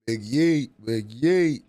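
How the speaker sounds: loud punchy chant of big yeet; hyped yell. Real, not acted. Streamer yelling a catchphrase at chat, loud. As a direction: bark it out like a hype call.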